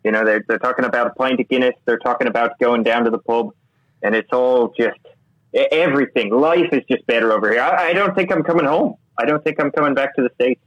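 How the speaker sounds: lightly put-on, unconvincing Irish accent; amateur Irish accent. Co-host abroad showing off his Irish accent to the host, badly faked. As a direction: attempt an Irish lilt, badly. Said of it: "specifically devoted to my Irish accent".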